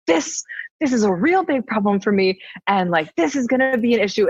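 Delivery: mild retold indignation; so angry. Guest retelling her protest to her partner, mildly indignant. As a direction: replay the anger with emphatic stresses. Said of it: "I got so angry".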